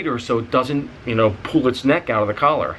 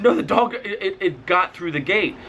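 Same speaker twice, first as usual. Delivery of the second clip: flustered panic; 7 semitones higher than usual. Retold or imitated. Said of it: "I said".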